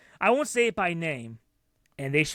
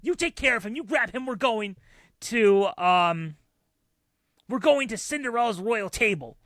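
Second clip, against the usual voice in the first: angry mom; 2 semitones higher than usual. Retold or imitated. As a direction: boss the husband around furiously. Mom's ongoing quarrel.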